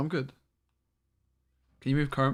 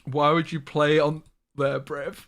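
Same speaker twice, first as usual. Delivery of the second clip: reading it out a bit louder and slower; reading chat message; 5 dB louder, slower than usual. Retold or imitated. Streamer reads a friend's teasing chat message, a mock-weighty read. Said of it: "Woody got me".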